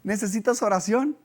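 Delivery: high, loud laughing call; retold shout. Friend shouting prayer offer to a manager, loud and high. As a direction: yell it across to him, amused. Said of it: "mi amigo le gritó".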